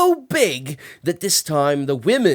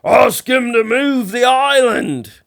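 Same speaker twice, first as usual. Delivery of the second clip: loud, raised call passed along; shouted; 8 semitones higher, 5 dB louder than usual. Acted. Much shouting up to his brother, loud call. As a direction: yell the message upward. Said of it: "shouted up to More".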